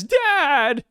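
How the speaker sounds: put-on high-pitched child's call; kid crying out. Kid to his dad from the tree, high mock cry.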